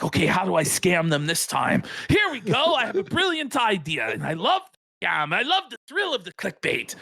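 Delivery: gleeful schemer, pitch swooping up; mock passion. Host imagining a passionate clickbait scammer, mock relish. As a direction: act thrilled by your own scam. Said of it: "he's not even passionate about the clickbait".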